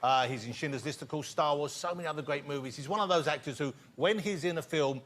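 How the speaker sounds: projected presenter voice, lifting on the name; talk-show host introduction. Real, not acted. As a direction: announce the star guest to the audience. Host introduces the next guest.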